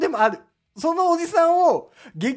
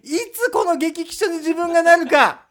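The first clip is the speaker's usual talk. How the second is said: loud campaign speech voice; rally speech; 4 semitones higher, 4 dB louder than usual. Pretend. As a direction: orate like a candidate on a street corner. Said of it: "日本激気症党だ。".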